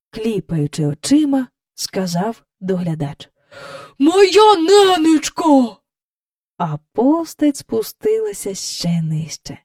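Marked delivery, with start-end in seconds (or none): 4.0-5.8 high, loud, slow cry of astonishment; amazed exclamation. A narrator's reading. Park keeper seeing the figure descend, amazed exclamation. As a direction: draw it out, dumbfounded.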